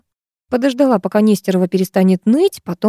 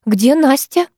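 a mild raised yell, higher; 7 semitones higher, slower than usual. A narrator's reading. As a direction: call out the question with force, understated. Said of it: "орала Ольга".

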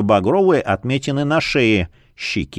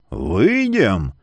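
deep bass voice; 3 semitones lower than usual. Acted. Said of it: "пробасил Лютень".

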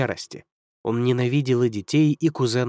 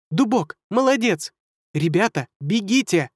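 high excited urging; excited squeak; 7 semitones higher than usual. Acted. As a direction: cheer the oak, rush the kids. Rat cheering and urging.

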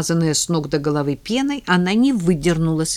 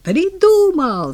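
loud, much higher, slow triumphant yell; excited shout; 12 semitones higher, 7 dB louder, much slower than usual. Acted. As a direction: shout out the discovery. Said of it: "заорал Кирюшка". (громкий торжествующий крик)

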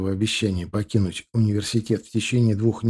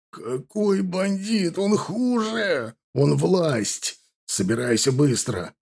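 grim menace; 6 semitones higher, much slower than usual. A narrator's reading. Husband's grim reply.

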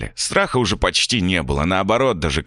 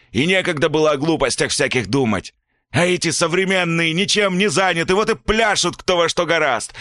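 furious father; 8 semitones higher than usual. A narrator's reading. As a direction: rage at the boy, then turn on the mother. Father lecturing about work.

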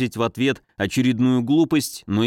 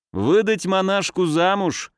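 chuckling; 7 semitones higher than usual. A narrator's reading. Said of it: "хохотнул один из шуанов".

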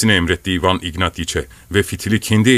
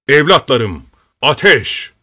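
louder, higher command to fire; firing order; 4 semitones higher, 3 dB louder, slower than usual. Acted. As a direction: bark the order to your men. (askerlerine ateş emri veren komutan, yüksek sesle)

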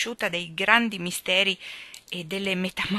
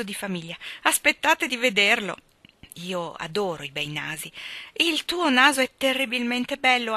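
put-on lively, light young woman's voice; a flighty girl gossiping breezily; lightly voiced chatterbox girl; chatty girl; 2 semitones higher, 4 dB louder than usual. Phil on noses and suitors.

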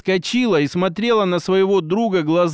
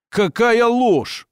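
higher, drawn-out cry of denial; slow, raised-pitch protest, no real shout; indignant exclamation; 4 semitones higher, much slower than usual. A narrator's reading. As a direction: exclaim it slowly, in restrained outrage. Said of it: "воскликнул Куропаткин".

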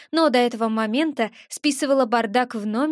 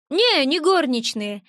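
disdainful; 3 semitones higher than usual. Acted. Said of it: "брезгливо скривился".

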